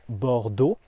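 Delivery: "Bordeaux" ending on a short pure O; "Bordeaux" with the final O kept flat; flat French vowel. Shown as a demonstration. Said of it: "instead of Bordeaux".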